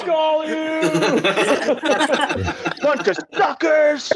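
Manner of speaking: mock trash talk. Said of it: "feel free to shit talk anybody".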